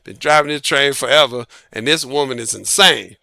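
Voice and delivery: put-on low, grumbled complaints of a tired old man; grumbling old train driver. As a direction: gripe under your breath like a worn-out driver. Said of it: "he's mumbling to it".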